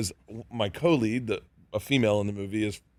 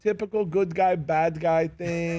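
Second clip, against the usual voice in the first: higher-pitched, vague bluff, stretched out at the end; imitated bluffing co-star; 5 semitones higher, slower than usual. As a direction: imitate someone faking film knowledge, dragging the last words. Co-star bluffing about the film.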